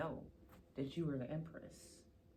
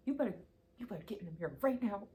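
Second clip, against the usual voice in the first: playful order; much faster than usual. Pretend. Reader mock-ordering the viewer to the mirror, fast. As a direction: rush them to the mirror in jest. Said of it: "I'm just playing".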